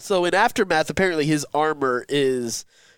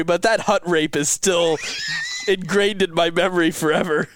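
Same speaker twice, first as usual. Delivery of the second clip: laughing through the words; can barely get it out for laughing. Real, not acted. Laughing while speaking.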